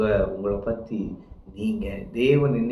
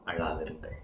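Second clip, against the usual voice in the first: low, soft consoling tone; hushed, low-pitched reassurance; gentle consoling; 8 semitones lower, 12 dB quieter than usual. Retold or imitated. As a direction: say it softly, as comfort. Repeats Jesus' words of comfort.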